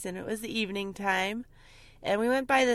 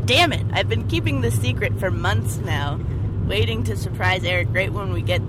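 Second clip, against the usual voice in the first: mock exasperation; 6 dB louder than usual. Retells frustration at spoiling secret.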